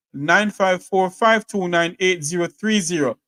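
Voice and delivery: slow, careful dictation of each digit; slow repeat of the number. Shown as a demonstration. Host slowly repeats the call-in number for listeners. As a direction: read the digits out slowly and deliberately. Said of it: "If you want to call in".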